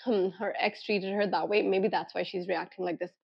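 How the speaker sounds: soft musing to yourself; hmm, quietly working it out; quiet reflective. Retold or imitated. Picturing her past, soft and reflective.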